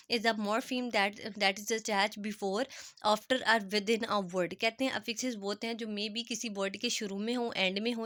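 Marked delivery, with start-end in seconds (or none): 0.1-4.6 reading the definition aloud word by word; slow definition read. Shown as a demonstration. Teacher to students, reading a definition very slowly. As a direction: dictate it slowly to the class.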